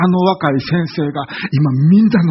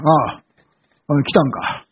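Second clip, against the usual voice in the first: dismissive host; 3 semitones lower than usual. Retold or imitated. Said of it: "っていう感じだったわけね".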